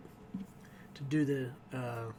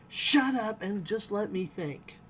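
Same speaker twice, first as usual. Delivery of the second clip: impatient captain; 6 semitones higher, 4 dB louder than usual. Retold or imitated. Captain silencing panicking alien.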